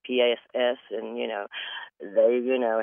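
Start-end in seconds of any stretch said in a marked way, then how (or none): 0.0-0.8 P A S S spelled out one letter at a time; spelling P A S S aloud. Shown as a demonstration. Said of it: "I used to sell it".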